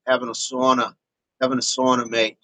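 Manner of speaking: casual attempt at an Australian accent; lightly put-on Aussie twang. Shown as a demonstration. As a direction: try a relaxed Australian accent. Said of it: "that might be a little Aussie".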